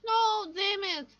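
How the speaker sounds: loud, slow frustrated yell; angry shout. Real, not acted. Dies in game, frustrated outburst.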